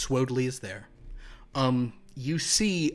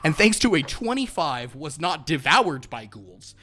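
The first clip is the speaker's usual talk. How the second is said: loud, raised-pitch recap; emphatic dramatic reveal; triumphant announcement; 4 semitones higher, 9 dB louder than usual. Real, not acted. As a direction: proclaim it like great news. Game master proclaims the survival.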